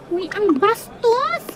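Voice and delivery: slow, drawn-out indignant outcry; affronted call-out. Acted. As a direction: stretch the words in offended protest. Pupil reacts to being pelted.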